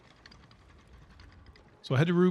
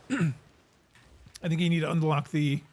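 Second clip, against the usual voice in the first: choking on a drink, clearing throat; 4 semitones higher, slower than usual. Real, not acted. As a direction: talk through a choke on a drink. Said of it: "sorry, I'm choking on my own".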